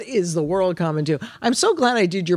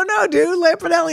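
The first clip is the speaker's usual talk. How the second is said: insistent correction; 12 semitones higher than usual. Retold or imitated. Correcting Gaffigan who missed her.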